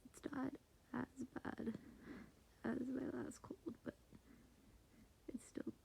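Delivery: hushed late-night whisper; whispering quietly at night. Real, not acted. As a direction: whisper so the roommate sleeps on. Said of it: "trying to be quiet".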